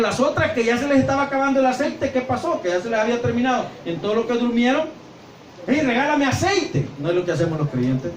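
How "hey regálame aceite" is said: begging. Acted. Foolish virgin begging oil.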